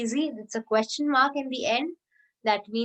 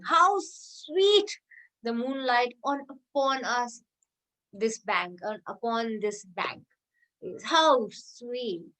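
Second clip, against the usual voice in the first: exclamation; slower than usual. Shown as a demonstration. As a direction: swoon over the moonlight. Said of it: "lot of emotions".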